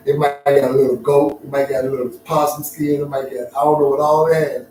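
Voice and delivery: loud, punched-up comic bragging; exuberant boasting. Real, not acted. Speaker hyping what grandma's blanket was made of, loud and exuberant.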